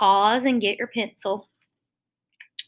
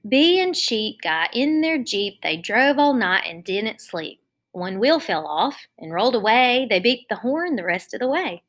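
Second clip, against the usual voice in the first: put-on lively rhythmic read aloud for kids; sing-song children's poem; 2 semitones higher than usual. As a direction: bounce through the rhyme.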